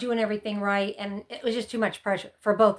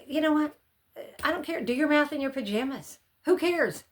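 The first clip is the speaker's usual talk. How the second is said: carefree; 5 semitones higher than usual. Retold or imitated. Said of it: "so it'd be like".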